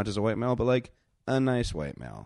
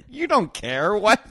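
high, loud mock shout of disbelief; mock outraged parent; 11 dB louder, slower than usual. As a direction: yell it like a stunned parent. Parent reacting, acted shout.

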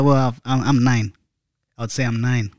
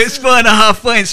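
louder and higher, stress on four; insistent; 10 semitones higher, 7 dB louder than usual. Real, not acted. Repeating the score to friends, loud and insistent. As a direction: hammer it home, loud and high on four.

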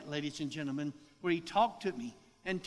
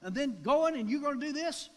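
put-on girls hollering at the driver, high and fast; retold hollering; 9 semitones higher, 4 dB louder than usual. Girls in the van hollering at him to turn left, raised fast voices. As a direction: pitch it up and rush, scolding. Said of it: "the girls hollered and said".

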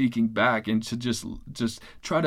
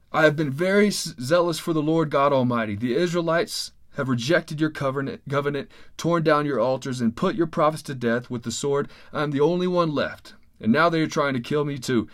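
lightly voiced complaining prophet, a little raised; a touch of self-pity in the plea; mild whining Elijah; 2 semitones higher than usual. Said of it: "he's complaining and whining to God".

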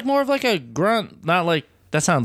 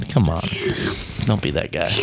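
whisper; 5 semitones lower than usual. Real, not acted. Teasing friend to drink.

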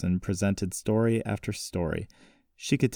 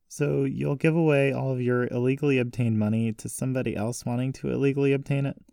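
put-on higher-pitched, incredulous young heroine; disbelieving granddaughter voice; challenging granddaughter; 6 semitones higher than usual. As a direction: question it pointedly, pitched up.

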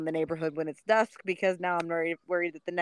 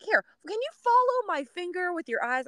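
higher, official cop tone; officer voice; 12 semitones higher than usual. Retold or imitated. Police friend testing the neighbor's eyes, higher. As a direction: play the cop checking eyes. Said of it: "And Shantae's like".

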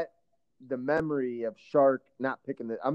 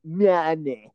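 loud, very drawn-out fake Russian accent; big, slow Russian-accent impression; Teddy KGB; 2 semitones higher, 4 dB louder, much slower than usual. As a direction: ham up a terrible Russian accent, savoring each word. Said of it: "You might have done that better than him".

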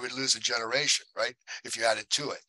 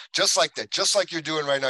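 excited; 5 semitones higher, 6 dB louder than usual. Retold or imitated. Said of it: "he laughed just like that".

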